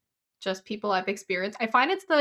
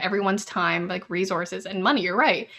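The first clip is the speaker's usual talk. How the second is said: mock angry rant. Angry at the friend who prank called her family restaurant. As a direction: tell him off for wasting everyone's time. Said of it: "I was so mad that he did".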